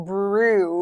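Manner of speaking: "brew" with a long oo, no y glide; clear oo in brew. Shown as a demonstration. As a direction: say "brew" with a plain oo vowel. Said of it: "brew สระอู". (ออกเสียง "brew" ด้วยสระอูชัดๆ)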